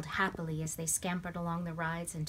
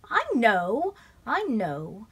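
higher, louder little sister voice; little girl insisting; 5 semitones higher, 9 dB louder, much slower than usual. A narrator's reading. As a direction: brush him off, she's heard it. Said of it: "Lindy replied".

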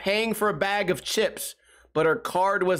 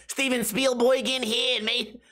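high-pitched, badly faked New York accent; 7 semitones higher than usual. Cop asking about a camera, bad New York accent. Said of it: "I don't know how to do a New York accent".

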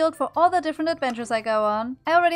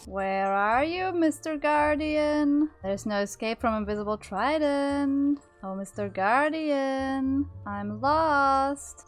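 slow, drawn-out sing-song taunt; creepy assassin; much slower than usual. Pretend. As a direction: stalk your prey teasingly. Hunting invisibly, creepy assassin.

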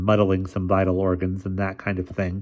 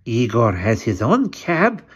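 slow, creepy hunchback servant; hunchback assistant; 4 semitones higher, 4 dB louder, slower than usual. A narrator's reading. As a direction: speak like a sly old hunchback.

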